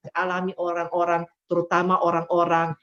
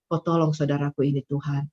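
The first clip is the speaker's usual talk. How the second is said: quiet prayer; 3 semitones lower than usual. Acted. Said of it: "waktu masuk kamar doa".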